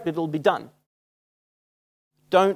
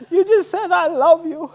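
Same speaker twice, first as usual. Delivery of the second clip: cracking up; 11 semitones higher, slower than usual. Retold or imitated. Guide cracking up at his Australian friend, laughing reveal. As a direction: imitate someone barely getting it out through laughter. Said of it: "he's cracking up".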